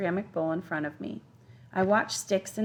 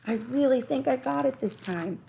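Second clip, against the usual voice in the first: put-on higher, eager boy's voice; excited boy; 7 semitones higher, 3 dB louder than usual. A narrator's reading. Boy shows off his new film, excited. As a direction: say it high and full of hope.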